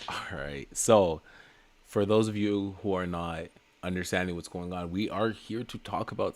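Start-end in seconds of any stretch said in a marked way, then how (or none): 0.1-0.7 hushed whisper. Real, not acted. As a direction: breathe it out, voiceless. Settles in quietly.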